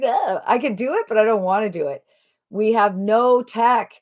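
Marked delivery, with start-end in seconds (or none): 0.0-2.0 reluctant groan. Acted. Host voicing someone who hates tech, reluctant. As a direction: whine it like a reluctant tech-hater.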